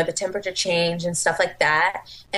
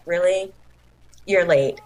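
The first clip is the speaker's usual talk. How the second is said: smug; 2 semitones lower than usual. Retold or imitated. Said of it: "looking at me all smug".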